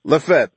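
"Lefebvre" as luh-FEB, short and falling; corrected pronunciation. Real, not acted. Narrator echoing the approved name, careful luh-FEB. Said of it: "Lefebvre is perfect".

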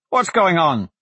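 calling out. Acted. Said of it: "Blaze called".

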